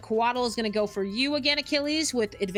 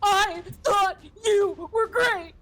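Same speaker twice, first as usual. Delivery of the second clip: slow, loud and higher, hammed-up sarcastic praise; mock praise; 9 semitones higher, 5 dB louder, slower than usual. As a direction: drag out fake compliment with a shout. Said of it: "Gabriel just goes".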